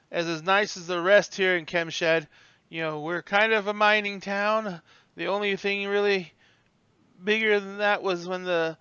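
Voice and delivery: put-on friendly old bellhop voice; chatty old bellhop. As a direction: show off the town, voice lifted. Bellhop chats about the town.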